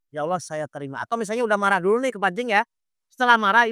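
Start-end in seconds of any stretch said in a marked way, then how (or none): 0.1-1.0 lower, softer words of surrender; accepting prayer. Acted. Ustadz models accepting sadness before Allah, softly resigned. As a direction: accept it quietly before God. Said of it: "Ibu bilang".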